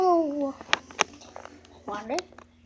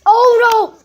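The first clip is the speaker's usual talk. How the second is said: surprised; 6 semitones higher, 4 dB louder than usual. Real, not acted. Reacting to cartoon mishap.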